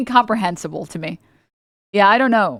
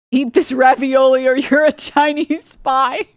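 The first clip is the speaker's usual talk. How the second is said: mock Italian partner; 4 semitones higher, 4 dB louder, slower than usual.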